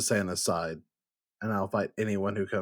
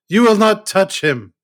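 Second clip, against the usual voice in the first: high, loud defiant yell; 10 semitones higher, 13 dB louder than usual. Acted. Deuce shouting at the agents over fallen Santa. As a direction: roar it to protect him. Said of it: "And I yell".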